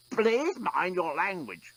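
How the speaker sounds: croaked. A narrator's reading. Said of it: "croaked the despot".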